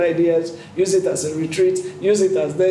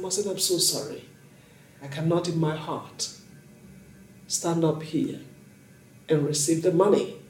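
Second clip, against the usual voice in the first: tearful apology; 6 dB quieter than usual. Retold or imitated. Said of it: "I cried".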